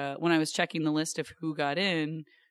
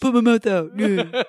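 loud, higher, quacky clowning; duck-like voice; 4 semitones higher, 9 dB louder than usual. Pretend. Explaining her improv talk to the host, loud duck voice. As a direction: push it out like a duck. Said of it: "the more you can embody a duck".

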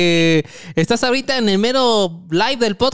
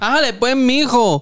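put-on Colombian accent; 4 semitones higher, 4 dB louder than usual. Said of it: "tú intenta ser un colombiano".

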